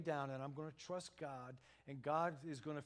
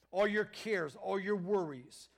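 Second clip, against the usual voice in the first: rising loud list, each all hit hard; building preaching; 4 semitones higher, 7 dB louder than usual. Acted. Preacher to congregation, building to a loud climax.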